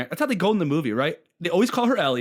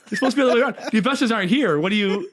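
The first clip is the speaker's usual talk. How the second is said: retold exasperation; 8 semitones higher, 4 dB louder, faster than usual. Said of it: "And I was like".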